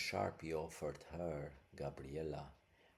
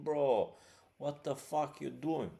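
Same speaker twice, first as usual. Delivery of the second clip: incredulous; 7 semitones higher, 7 dB louder than usual. Real, not acted. Incredulous rant at Sharpe.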